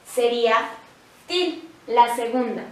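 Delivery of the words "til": "til" leaned on as the strong syllable; stressed syllable. Shown as a demonstration. Teacher showing students which syllable sounds strongest, stressed. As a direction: hit "til" harder and hold it. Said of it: "es la que suena más fuerte".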